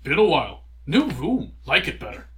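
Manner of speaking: loud, choppy gargoyle speech; short bursts like an eager gargoyle. Acted. DM voices the gargoyle.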